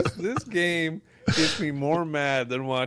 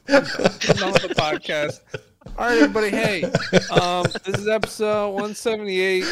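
mock sign-off; 4 semitones higher than usual. Mock quitting the podcast.

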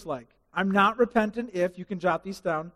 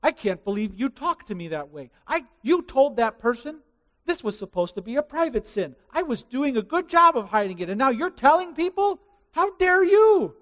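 indignant sinner; 5 semitones higher, 4 dB louder than usual. Acted. Caught sinner scolding the one who told, rising to outraged shout. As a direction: climb into offended fury.

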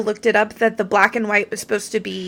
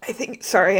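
talking through hiccups; words broken by a hiccup. Real, not acted. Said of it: "I got the hiccups a little bit".

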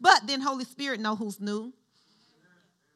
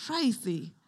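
the name said intimately, falling; imitating a tender address; personable, loving. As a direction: call the name like a loved one's. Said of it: "It was like a personable".

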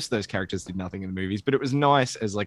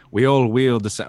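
Alec Guinness Obi-Wan; 2 semitones higher, 6 dB louder than usual. Acted. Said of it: "more Alec Guinness Obi-Wan".

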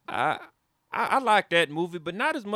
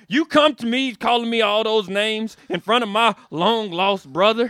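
redneck anger building; 5 semitones higher, 4 dB louder than usual. Acted. Redneck confronting the Englishman, rising.

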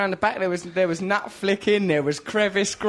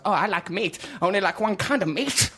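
mock sexy; 2 semitones lower than usual. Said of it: "Like that, all sexy".

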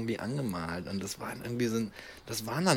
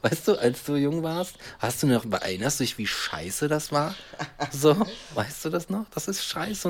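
exasperated; 5 semitones higher than usual. Retold or imitated. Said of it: "Ich denk mir so".

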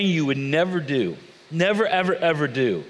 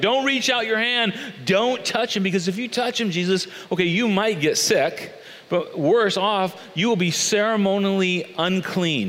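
higher-pitched anxious pleading; mock-panicked caution, pitched up; alarmed warning; 4 semitones higher than usual. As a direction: act out a worried friend trying to stop him. Acting Peter's alarmed warning to Jesus.

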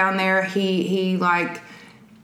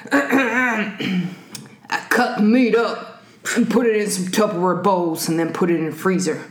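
calm psychopath. Acted. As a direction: read it like a calm killer confessing. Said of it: "do it in a Baltimore serial killer voice".

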